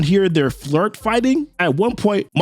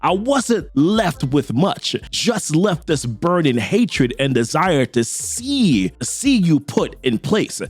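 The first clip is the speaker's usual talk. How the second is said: vengeful villain; 2 semitones lower than usual. Acted. Voices vengeful Gao in the story.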